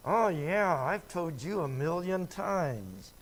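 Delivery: mock-weary overstatement; sarcastic exaggeration. Parent exaggerating how often they warned, sarcastic. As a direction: lay on the exaggeration thick. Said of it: "I'm emphasizing".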